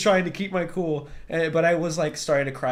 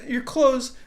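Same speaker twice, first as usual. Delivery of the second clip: mom voice; 9 semitones higher than usual. Retold or imitated. Mom voice giving orders.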